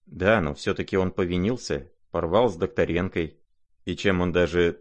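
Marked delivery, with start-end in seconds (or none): none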